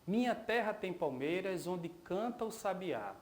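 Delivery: leitura poética cadenciada, verso a verso; recitação de poema. Acted. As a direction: recite the poem in measured lines, pausing between verses. (recitação de poema em voz alta)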